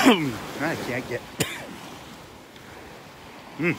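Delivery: throat tickled, strained; talking with an itchy throat; tickle in throat. Real, not acted. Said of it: "tickling my throat".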